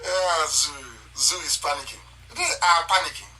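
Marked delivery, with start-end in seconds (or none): 1.2-3.3 laughing through the words; laughing gloat. Real, not acted. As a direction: chuckle as you mock them.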